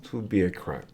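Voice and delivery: lightly voiced French prince, halting; measured prince with a French accent. Plays the French-speaking prince.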